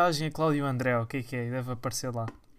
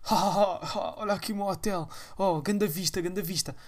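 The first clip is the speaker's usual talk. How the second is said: mock laughing youtuber; 3 semitones higher than usual. Impersonates youtuber showing view.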